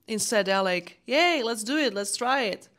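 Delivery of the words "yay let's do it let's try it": a hint of an eager little kid; lightly voiced child's cheer, lifted at the start. Babies with no self-doubt, lightly imitated little-kid cheer. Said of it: "You know, little kids".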